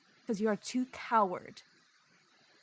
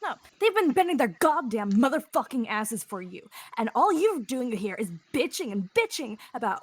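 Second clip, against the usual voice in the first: angry. Acted. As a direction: keep the anger going. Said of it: "Harry is fucking angry".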